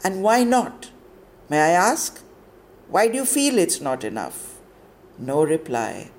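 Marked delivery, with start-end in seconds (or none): 0.0-4.6 stern warden. Acted. Warden pressing for answer.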